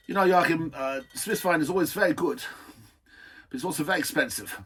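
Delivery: imitating German accent. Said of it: "he did have a German accent".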